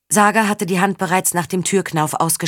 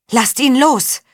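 shout; 7 semitones higher, 4 dB louder, slower than usual. Acted. Tjessa shouts to free Faun.

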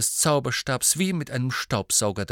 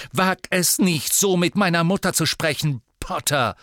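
loud, high furious warning; snarling boy defending his mother; 7 semitones higher, 5 dB louder than usual. A narrator's reading. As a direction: snarl at Potter. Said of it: "knurrte Malfoy".

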